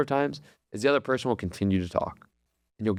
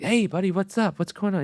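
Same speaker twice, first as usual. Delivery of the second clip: fake casual; 8 semitones higher than usual. Father feigning casual to son.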